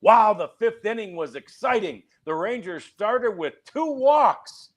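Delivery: high, exaggerated wow, dripping with sarcasm; sarcastic. Co-host recounting his jibe about a dull inning, sarcastic. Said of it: "sarcastically said".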